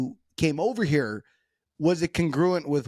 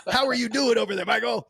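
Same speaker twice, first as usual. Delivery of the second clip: higher-pitched mock Californian accent; 7 semitones higher than usual. Shown as a demonstration. Showing how Californians talk, exaggerated Californian accent. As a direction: put on a pitched-up Californian greeting. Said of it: "Californians talk like this".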